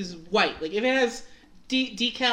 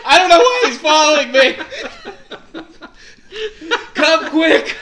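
mock panicked call; 8 semitones higher, 10 dB louder than usual. Van mock-calls the cops.

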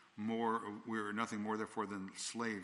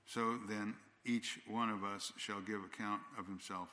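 preacher reading Romans aloud; scripture reading. Acted. Reads scripture slowly.

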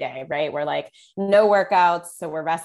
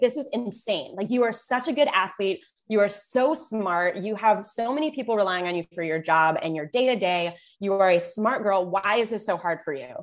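retold scolding; 2 semitones higher than usual. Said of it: "I yelled at her".

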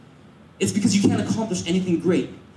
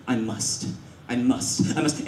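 low, softer determined inner voice; ambitious resolve; 9 semitones lower, 6 dB quieter than usual. Acted. Ambitious person always thinking it, low quiet resolve. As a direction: repeat it low, like a private vow. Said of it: "you're always thinking".

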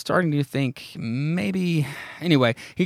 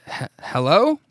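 stammered, higher acted hello; hesitant calling; 4 semitones higher than usual. Bobby calling toward the groaning, hesitant. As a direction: call out uncertainly, tripping on the first sound.

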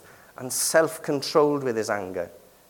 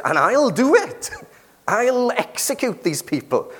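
imitating a caller; 9 semitones higher than usual. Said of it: "and said".

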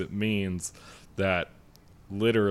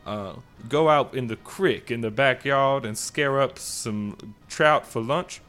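a genteel Southern gentleman voice, hammed up; Southern gentleman accent; 3 semitones higher than usual. Podcast host opens the show in a mock Southern accent. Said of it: "tell you about it in a hillbilly accent".

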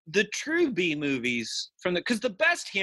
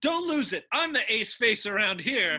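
cocky gang leader; 3 semitones higher than usual. Acted. Acts gang leader calming others.

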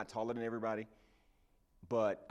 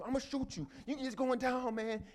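much higher threat yelled across the yard; shouted threat. Acted. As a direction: call it out from fifty yards away. Gunman threatens from afar.

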